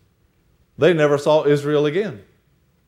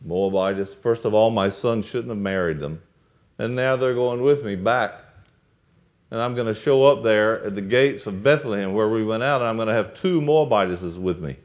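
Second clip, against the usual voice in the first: low, quiet muttered fretting to herself; Naomi's inner worry; 4 semitones lower, 3 dB quieter than usual. Acted. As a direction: lower and softer, as if worrying privately. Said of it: "she's thinking".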